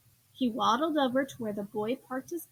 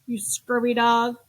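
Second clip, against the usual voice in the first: pirate bellow; 5 dB louder, slower than usual. Acted. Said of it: "that bellowed".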